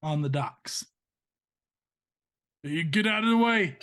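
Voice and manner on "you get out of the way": raised, higher-pitched warning; angry warning. Acted. Man carrying off the priest to his pursuers, angry. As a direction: warn them off forcefully. Acted fight on the docks.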